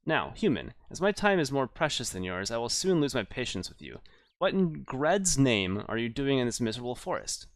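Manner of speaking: lightly voiced imperious elf, impatient; impatient elf woman. Elf questioning an unwelcome human in her forest, impatient. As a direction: play a busy elf losing patience.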